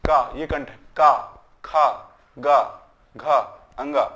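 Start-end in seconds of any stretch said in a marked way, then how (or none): 0.0-0.3 का sounded from the throat; throat consonant. Shown as a demonstration. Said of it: "वो कंठ से बोला जाता है". 1.0-4.0 का, खा, गा, घा, अंगा from the throat; teacher's demo of का, खा, गा, घा, अंगा, back of the mouth; throat consonant drill. Shown as a demonstration. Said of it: "वो कंठ से बोला जाता है".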